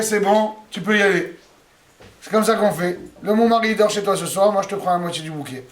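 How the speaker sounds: breezy dealmaker; bargaining Rachel. Acted. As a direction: strike a casual deal. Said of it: "qu'est-ce qu'elle dit, Rachel". (Rachel qui marchande, ton léger)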